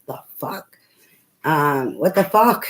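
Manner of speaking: indignant what the fuck, rising loud; mock outrage. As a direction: act out the shock at the price. Outraged at price quote.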